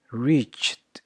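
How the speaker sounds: "reached" as one syllable, reacht. Shown as a demonstration. Teacher demonstrating the T sound, "reached" as reacht. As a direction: close "reached" on a T. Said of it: "There is a T sound".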